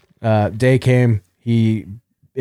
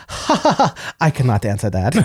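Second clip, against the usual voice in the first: mock Japanese accent. Patient imitating ultrasound lady's refusal, mock Japanese accent. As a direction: caricature a Japanese woman refusing. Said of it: "doing the, quote, accent".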